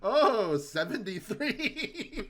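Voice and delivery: loud, high and slow monster gloat. Retold or imitated. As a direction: stretch seventy-three out like a gloating monster. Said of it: "the monster rolls".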